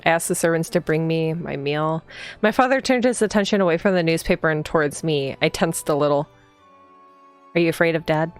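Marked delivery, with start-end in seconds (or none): 0.0-6.3 even, slightly low storytelling read; read-aloud narration. A narrator's reading. Player reading the heroine's morning greeting aloud, even narration. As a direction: read the game text evenly, unhurried. Reads the game's text aloud.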